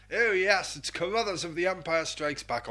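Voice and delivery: a hint of a plummy old colonel; lightly hammed-up toff; daft posh voice. Host introduces Carruthers in a lightly daft posh voice. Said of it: "Don't know why I'm doing this daft voice".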